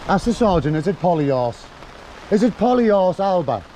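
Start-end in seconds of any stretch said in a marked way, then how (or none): 0.8-1.7 POLYARSE as three beats, polly-arse; mock Gaelic pronunciation. Shown as a demonstration. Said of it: "is that how you pronounce it?". 2.3-3.6 POLYARSE drawn out slowly as polly-arse, then Alba; mock Gaelic pronunciation. Shown as a demonstration. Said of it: "is that how you pronounce it?".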